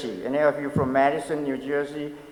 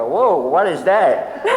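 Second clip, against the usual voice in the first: taken aback; 5 dB louder, slower than usual. Retold or imitated. Recalls shock at Southern greeting.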